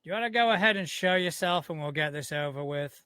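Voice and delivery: projected challenge, easing off by the end; loud proclamation. Acted. Player's character calls out a hidden stranger, proclaiming loudly at first. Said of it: "he's just gonna loudly proclaim".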